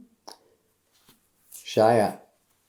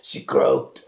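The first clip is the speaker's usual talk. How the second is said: low, hushed blunt deadpan; deadpan brother; 8 semitones lower than usual. Retold or imitated. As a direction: drop it flat and low like bad news. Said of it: "And he goes".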